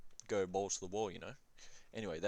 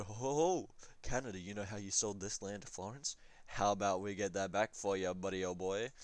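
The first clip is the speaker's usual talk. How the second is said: mock jolly pitch. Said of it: "Speak like that to him".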